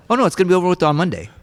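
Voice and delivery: breezy, fast and offhand; quick casual dismissal of the strike; matter-of-fact. Retold or imitated. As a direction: brush it off like it's obvious. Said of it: "like, matter of fact".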